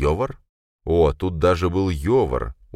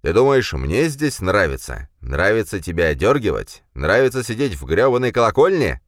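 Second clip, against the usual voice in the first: raised, heated questions; furious outburst; 5 semitones higher, 4 dB louder than usual. A narrator's reading. Khranka rants at Jurgen about the bell tower, angry. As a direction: hurl each question louder. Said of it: "взвился Хранка".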